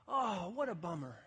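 commiserate with hammed-up concern; mock sympathy. Shown as a demonstration. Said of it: "how's this one".

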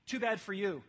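too bad, said briskly at full voice; blunt dismissal. Shown as a demonstration. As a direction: brush them off without softening it. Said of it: "let me say it nicer".

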